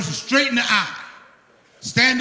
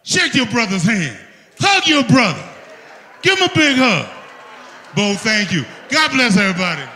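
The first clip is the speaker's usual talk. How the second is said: hype shout; 4 dB louder than usual. Real, not acted. Hyping the crowd after chant.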